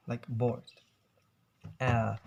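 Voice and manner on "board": "board" with the r dropped, like "bawd"; "board", long vowel, silent r; British silent R. Shown as a demonstration. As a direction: repeat "board" with no r sound. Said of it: "avoid to pronounce the R".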